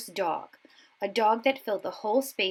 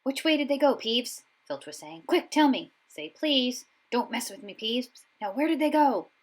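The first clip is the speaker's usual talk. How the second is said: demanding caretaker; 6 semitones higher, 5 dB louder than usual. A narrator's reading. Filch demanding answers from Peeves.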